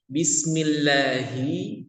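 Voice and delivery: slow, careful bismillahi with a stretched ending; drawn-out demonstration of bismillahi; slow demo reading. Shown as a demonstration. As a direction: spell out bismillahi slowly, drawing out the rising end. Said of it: "Kalau ini H besar".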